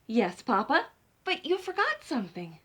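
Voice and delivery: put-on chirpy child chicken; a bright eager little girl. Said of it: "Chicken answers Papa".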